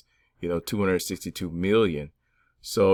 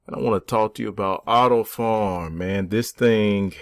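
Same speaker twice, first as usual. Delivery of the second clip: crypto bro; 4 semitones higher, 5 dB louder than usual. Acted. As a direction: sell it like a crypto hype channel. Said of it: "Johnny Diamond Hands here".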